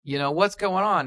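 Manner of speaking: mildly exasperated alligator in a told joke; lightly voiced alligator. Alligator questioning the stoned lizard, lightly exasperated voice. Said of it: "And the alligator says".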